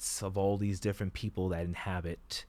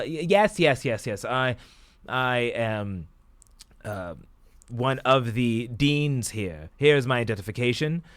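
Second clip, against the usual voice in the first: raised, insistent repeated yeses; hurried, self-important impatience; impatient; 3 semitones higher, 5 dB louder than usual. Acted. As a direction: cut in and brush the questions aside. Faustus cuts in impatiently on guard.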